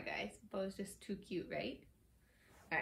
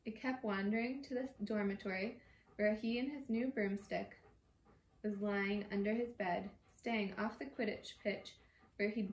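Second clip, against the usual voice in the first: measured read-aloud storytelling; reading a novel aloud; story narration. A narrator's reading.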